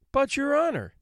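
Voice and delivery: the woman objects to the judge, high and protesting. Acted. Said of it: "she protested".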